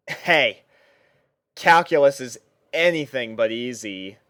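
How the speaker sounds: ordinary delivery, nothing marked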